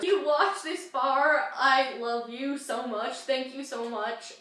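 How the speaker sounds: slow, drawn-out sweet thanks; gushing thanks. Real, not acted. Vlogger slowly thanks the viewers who watched to the end. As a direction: lay the love on slowly.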